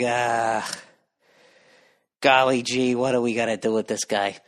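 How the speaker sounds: a lightly voiced, easygoing Jesus; a hint of a mellow, amused savior shrugging it off. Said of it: "What would Jesus do? ... and be like".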